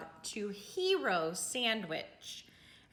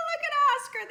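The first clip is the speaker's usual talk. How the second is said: high, louder taunting call; mocking cry; 9 dB louder, much faster than usual. A narrator's reading. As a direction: jeer it out, pointing and laughing. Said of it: "they cried".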